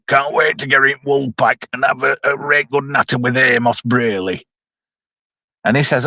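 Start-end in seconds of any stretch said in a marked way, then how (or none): 0.1-4.5 lightly voiced soap regular, level monotone; a hint of a pub-going character, even pitch; Seth Armstrong. Reviewer imitating a soap character heading to the pub, light impression. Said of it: "Seth Armstrong's there like".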